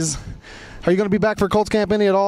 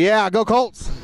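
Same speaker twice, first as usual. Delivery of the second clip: a touch of conviction, pitched up; like meaning it; 4 semitones higher, much slower than usual. Shown as a demonstration. Host showing a shy fan how to cheer, with conviction. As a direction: cheer it like you mean it. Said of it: "say it like you mean it".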